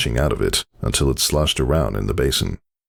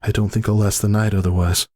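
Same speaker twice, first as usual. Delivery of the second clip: strained mother; 7 semitones higher than usual. A narrator's reading. Laboring mother speaking.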